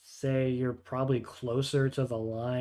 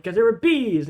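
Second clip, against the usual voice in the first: higher and louder, whiny; defensive goblin; 7 semitones higher, 7 dB louder than usual. Acted. Goblin defending himself to his neighbour, whiny and loud. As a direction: whine the excuse back at him. Goblins bicker after foot stepped.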